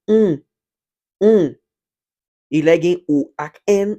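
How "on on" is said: "on" nasal at word end. Shown as a demonstration. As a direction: say "on" through the nose, Portuguese way. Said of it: "ou va pwononse". (pwononse "on" ak son nen)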